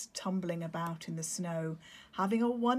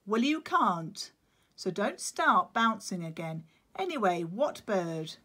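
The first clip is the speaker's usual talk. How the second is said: firm penguin; 2 semitones higher, 5 dB louder than usual. Acted. Claudius voiced.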